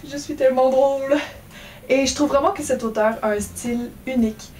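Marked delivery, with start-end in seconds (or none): 0.1-1.2 mock self-praise. Real, not acted. Self-mocking joke after laughing.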